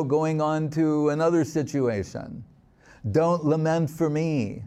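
a hint of a child calmly teaching the crowd; revived child speaking. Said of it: "this is a child speaking now".

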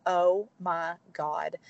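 slow, word-by-word retold awe; dazed and drawn out; stunned. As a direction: let each word land slowly, overwhelmed. Retelling being stunned by the plan.

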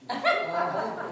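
imitated animal growl of pain; wordless growl after a bashed head. Shown as a demonstration. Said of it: "I growl like an animal".

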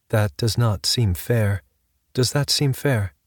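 slow, hollow ghostly AI voice. Acted. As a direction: speak slowly, empty and distant. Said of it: "spoke in a hollow voice".

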